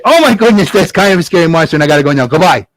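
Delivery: lightly voiced flustered wizard; hurried excuse from a wizard. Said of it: "And the wizard said".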